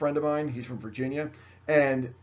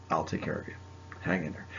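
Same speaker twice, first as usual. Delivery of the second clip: low, soft reassurance; mock reassurance; 7 semitones lower, 5 dB quieter, faster than usual. Teacher to confused students, low soft reassurance. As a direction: soothe them in a hushed, lower voice.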